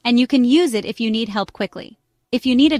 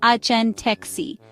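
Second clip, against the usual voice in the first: slow, drawn-out "anteeksi" for learners; slow demonstration; much slower than usual. Shown as a demonstration. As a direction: sound out "anteeksi" part by part, slowly. Phrase repeated slowly for learners.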